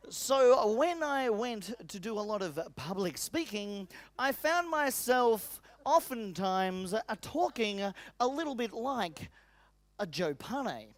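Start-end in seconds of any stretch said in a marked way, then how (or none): 4.2-10.9 mock trainer voice. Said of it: "why are you impersonating Joe Pane".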